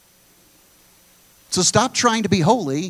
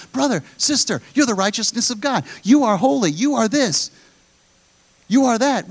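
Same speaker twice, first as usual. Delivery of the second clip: earnest encouragement; 3 semitones higher than usual. Acted. Acts out encouraging a fellow believer.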